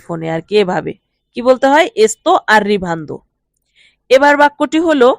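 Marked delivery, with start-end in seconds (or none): 2.1-3.2 very slow, careful Italian; deliberate teacher's dictation pace; slow model phrase. Shown as a demonstration. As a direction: spell each syllable out for learners. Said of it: "teacher models Italian phrase slowly".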